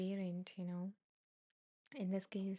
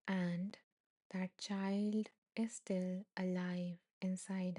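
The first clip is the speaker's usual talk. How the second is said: slow, measured read-aloud; unhurried reading of a meditation passage; slower than usual. A narrator's reading. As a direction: read it slowly, pausing between phrases. Reads meditation text aloud.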